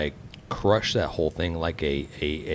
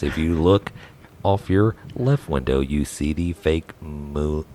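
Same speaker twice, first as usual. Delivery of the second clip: flight attendant; 2 semitones lower, 5 dB louder than usual. Pretend. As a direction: welcome the passengers over the intercom. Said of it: "your best impression of a flight attendant".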